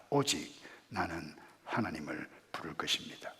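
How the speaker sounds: low, very soft declaration; quiet verse reading. Acted. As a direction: say it hushed, nearly whispered. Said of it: "이렇게 말씀합니다".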